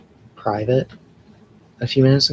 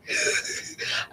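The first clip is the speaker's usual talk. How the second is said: squeaky unvoiced laugh in place of an accent; breathy failed-impression laugh; 7 dB quieter than usual. Real, not acted. Streamer fails to copy a New Yorker, squeaky laugh. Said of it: "I can't even replicate his accent".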